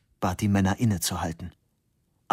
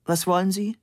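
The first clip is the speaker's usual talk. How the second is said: annoyed snap; 10 semitones higher than usual. Acted. Disturbed assistant snaps at Fabian, high and irritated. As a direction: brush off the intruder sharply. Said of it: "blickte ungehalten hoch".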